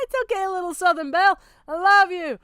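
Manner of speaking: fond teasing. Real, not acted. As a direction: sweet-talk her like a Southern belle. Teasing wife affectionately.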